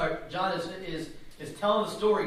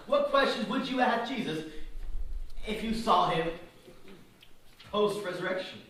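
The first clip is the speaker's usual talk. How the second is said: emphatic question; 4 semitones higher than usual. Real, not acted. Preacher pressing the congregation.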